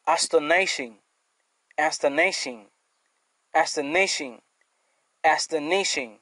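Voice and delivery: Astonishing said four times, stress on -ton-, ending -shin; repeated pronunciation. Shown as a demonstration. Teacher drilling a new word for students, repetitive. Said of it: "cinquième adjectif".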